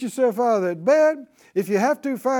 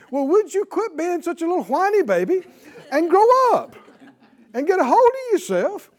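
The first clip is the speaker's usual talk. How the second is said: higher, louder scolding rebuke; 8 semitones higher, 6 dB louder than usual. Acted. Preacher scolding a self-pitying listener, raised voice. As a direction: tell off a whiny baby.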